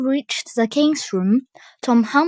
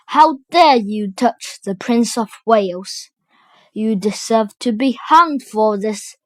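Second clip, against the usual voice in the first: indignant. Acted. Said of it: "storming up to him".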